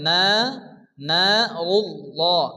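না held long, slow নারুল্লাহ; one-alif stretch. Shown as a demonstration. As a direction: draw out the aa of না one full beat. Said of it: "এক আলিফ পরিমাণ টান দিয়ে".

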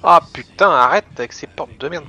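loud furious yell; angry. Real, not acted. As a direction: yell at the broken doors. Doors won't stay shut.

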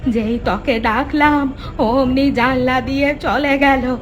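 fearful lament. Acted. Mother telling her son what the ghost said, frightened wail. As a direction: recount it in wailing fright.

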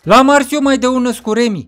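high, loud character voice; yelling boast. Acted. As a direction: shout it back, still worked up. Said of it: "cum țipa prin părculeț".

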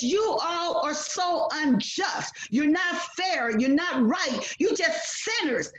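Jesus rebuking the merchants in his temple, angry shouting; angry rebuke. Retold or imitated. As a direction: scold them as Jesus in full anger. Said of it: "He was so angry at them".

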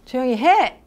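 teacher's loud order to shut up; sharp command. Shown as a demonstration. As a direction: bark it at noisy kids. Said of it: "빼요".

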